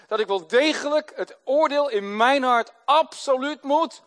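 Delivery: usual speaking voice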